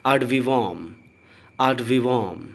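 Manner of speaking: "ad vivum" very slow: "aad VEE-vum"; drawn-out model "ad vivum", each syllable spaced; correct pronunciation. Shown as a demonstration. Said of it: "इसका correct pronunciation है". ("ad vivum" बहुत धीरे, "आड वीवम")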